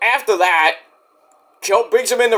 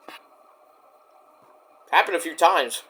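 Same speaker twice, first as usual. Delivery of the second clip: slow, softer, each word weighted; slow emphatic repeat; 2 semitones lower, 5 dB quieter, much slower than usual. Real, not acted. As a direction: let it sink in, slowly.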